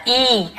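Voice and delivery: ई held long, as a drawn-out "ee"; long ee sound. Shown as a demonstration. Teacher showing students the long vowel, ई drawn out. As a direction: say ई as a long, clear "ee". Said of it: "ऐसे होता है ना".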